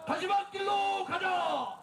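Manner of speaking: slow drawn-out chanted slogan; roaring rallying speech. Real, not acted.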